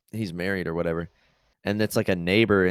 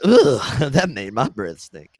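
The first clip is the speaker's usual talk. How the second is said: disgusted priest quote; 4 semitones higher, 6 dB louder, slower than usual. Retold or imitated. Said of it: "he's like".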